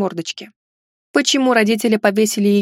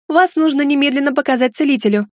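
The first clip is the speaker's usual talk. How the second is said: mildly urgent, higher-pitched exclamation; exclaiming; 4 semitones higher than usual. Acted. Heroine urging the injured guest to a healer, exclaiming. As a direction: urge it with a lightly raised voice. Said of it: "воскликнула".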